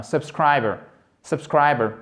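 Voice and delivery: subscriber ending in a bare schwa, no R; silent final R. Shown as a demonstration. Teacher shows the R is not heard, silent final R. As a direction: drop the R at the end of subscriber. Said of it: "on n'entend même pas le R à la fin".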